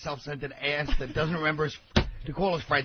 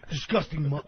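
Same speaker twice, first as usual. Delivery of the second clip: dead-serious scolding; 4 dB louder than usual. Retold or imitated. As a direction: imitate him cursing you out in earnest. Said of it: "but he was dead serious".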